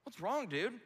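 high, loud mock scolding; a mocking, dismissive God; harsh God. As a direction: jeer it down at him like an impatient boss. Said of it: "God could have come to Cain and said".

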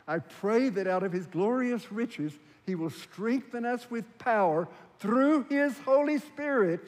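slow, high declamation; emphatic scripture reading. Acted. Preacher reading Paul's prayer to the congregation, proclaiming. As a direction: proclaim the prayer in measured phrases.

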